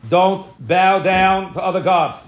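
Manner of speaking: "Don't bow down to other gods" spoken slowly, each word set apart; unhurried teacher reading "bow down" with weight; slow deliberate translation. Shown as a demonstration. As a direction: translate it slowly and carefully, as if to a class. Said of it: "Lo tishtachaveh leleheim".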